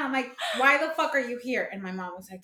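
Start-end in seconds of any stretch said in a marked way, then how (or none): 0.6-1.7 high-pitched indignant demand; incredulous, mock-furious challenge; retold anger. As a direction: replay being mad at an intruder. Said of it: "I was so mad".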